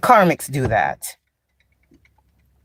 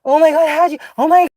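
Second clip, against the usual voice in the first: high, squealing oh my God; mock gushing; 11 semitones higher than usual. Mocking what braggers expect from her. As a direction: gush on cue, mockingly. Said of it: "you're supposed to be like".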